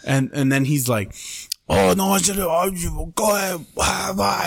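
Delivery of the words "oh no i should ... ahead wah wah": high-pitched grumbling imitation; mock mad clerk. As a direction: mimic an annoyed clerk's jabber, pitched up. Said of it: "He's getting all mad".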